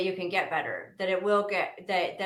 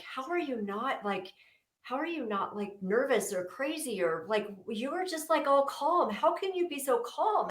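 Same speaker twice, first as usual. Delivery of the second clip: high, incredulous retold stepmom; mock amazed stepmother asking; a lightly voiced stepmom, higher and disbelieving; imitating stepmom; 6 semitones higher than usual. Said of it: "She's like".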